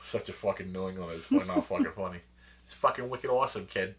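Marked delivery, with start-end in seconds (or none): 2.7-4.0 put-on thick Boston accent, hamming it up. Playing up a Boston accent for a podcast co-host. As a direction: lay on the Boston accent for your buddy. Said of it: "Straight out of Boston".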